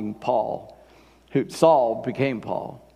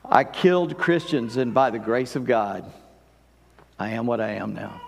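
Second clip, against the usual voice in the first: humble reading; 5 semitones lower than usual. Shown as a demonstration. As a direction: say it in awe of grace received. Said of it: "I don't think that's what he said. I think he said".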